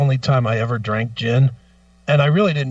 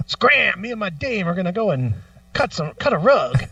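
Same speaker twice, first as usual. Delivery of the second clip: put-on old-timey slang voice; 5 semitones higher than usual. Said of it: "old-timey words".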